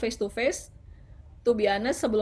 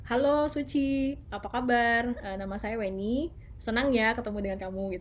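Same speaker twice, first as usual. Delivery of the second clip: friendly introduction. Shown as a demonstration. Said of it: "Jadi misalnya kayak".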